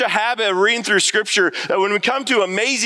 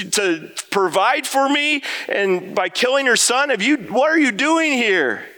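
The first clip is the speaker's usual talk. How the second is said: higher, pleading disbelief at God; anguished questioning; 6 semitones higher than usual. Retold or imitated. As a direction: ask God why, voice lifted and pained. Elijah voiced questioning God.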